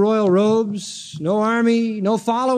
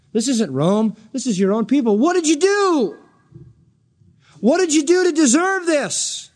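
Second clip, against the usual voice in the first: baffled questioning; 4 semitones higher than usual. Retold or imitated. Pilate questions Jesus.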